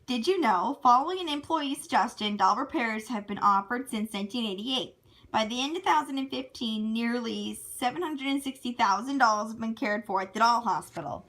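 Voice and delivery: lively fact-reading voice; reading aloud. Acted. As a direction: read it out like a fun fact. Reads facts from book.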